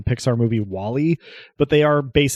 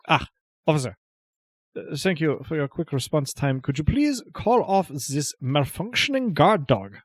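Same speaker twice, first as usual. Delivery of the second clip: entitled politeness; 4 semitones higher than usual. Acted. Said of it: "his best "I'd like to speak to the manager".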